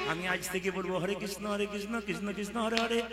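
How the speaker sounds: softly voiced old aunt, timid; hint of a fretful aunt confiding; aunt's voice. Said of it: "বলছে".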